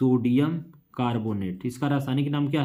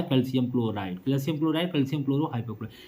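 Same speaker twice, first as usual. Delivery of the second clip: quick recap; 3 dB quieter, faster than usual. Shown as a demonstration. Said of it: "दो नाम इसके होते हैं।".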